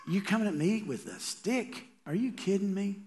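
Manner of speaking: high, incredulous taunt; mocking giant. Goliath scoffing at David's stick, pitched high. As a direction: scoff like you can't believe it. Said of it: "he's just mocking him".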